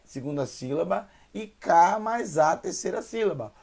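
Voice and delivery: ordinary delivery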